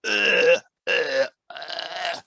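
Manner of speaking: long, drawn-out mock "uh" fillers; horrible hesitation noises. Shown as a demonstration. Coach showing interpreters what delivery to avoid, drawn-out hesitation. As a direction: demonstrate dragging, stalling "uh"s. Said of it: "that sounds horrible to the customer".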